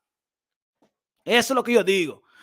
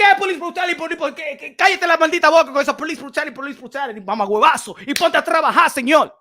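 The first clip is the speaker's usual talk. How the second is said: loud, fast scolding retort; mock scolding; 3 dB louder, faster than usual. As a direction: snap at the complainer to shut up. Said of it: "Así como le tiene que hablar".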